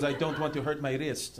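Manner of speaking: put-on French player's excuse; French accent. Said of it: "like, French".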